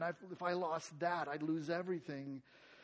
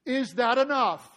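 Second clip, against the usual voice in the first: doubtful counting; 8 semitones higher, 10 dB louder than usual. Retold or imitated. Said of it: "So they do an accounting".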